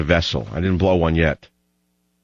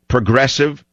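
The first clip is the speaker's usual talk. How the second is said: "progressive" set apart and pitched higher; stress on PROGRESSIVE; 4 semitones higher than usual. Shown as a demonstration. Host reading Mao's quotation to prove a point, emphasis on "progressive". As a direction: lift the word "progressive" on its own. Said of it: "Notice the emphasis on the word progressive".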